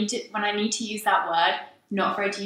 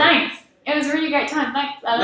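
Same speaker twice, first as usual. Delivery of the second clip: high-pitched voice; 6 semitones higher, 3 dB louder than usual. Real, not acted. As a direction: voice jumps up high on thanks. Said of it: "your voice goes high when you lie".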